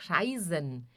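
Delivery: reisen with EI said as "ai"; EI como AI. Shown as a demonstration. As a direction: say reisen with the vowel of "eye". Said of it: "E I são de ai". (reisen com EI soando como AI)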